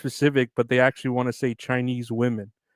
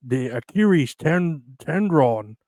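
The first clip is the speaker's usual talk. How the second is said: retried mock accent, "Achilles" said with an r for the l; second try at a put-on accent; slower than usual. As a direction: fix the accent and say "tendron", still slightly French. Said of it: "That still sounds a little, uh, French".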